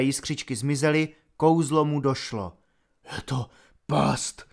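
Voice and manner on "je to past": each word costs him effort; strained in pain. A narrator's reading. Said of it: "každé slovo mu zřejmě působilo bolest". (bolestně, pomalu ze sebe vyrážená slova)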